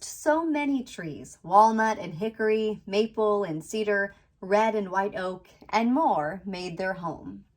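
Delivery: picture-book read-aloud, landing gently on the rhymes; storybook narration. A narrator's reading. Author reading her children's book about a little tree, storybook narration. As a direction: read to children with lilting, measured phrasing.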